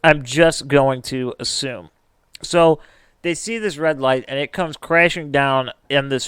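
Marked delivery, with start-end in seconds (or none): 0.0-1.9 slow, word by word; measured, fully pronounced repeat; deliberate restatement. Real, not acted. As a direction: spell out "going to" in full, slowly. Pointedly careful restatement of own words.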